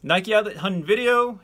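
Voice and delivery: high, punched-up sign-off phrase; emphatic final retake. Shown as a demonstration. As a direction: belt the phrase out high and loud. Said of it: "can't even say that that fast".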